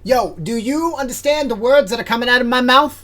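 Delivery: high, loud squirrel shout. Acted. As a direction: squirrel yelling to be understood. Squirrel asks loudly.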